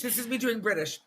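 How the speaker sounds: feeble attempt at a British accent; hopelessly unconvincing British. Shown as a demonstration. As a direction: try British and barely manage it.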